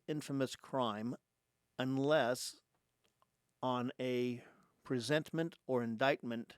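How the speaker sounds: measured, emphatic reading with long pauses; formal reading aloud. Real, not acted. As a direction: read out a legal text phrase by phrase. Reads amendment text aloud.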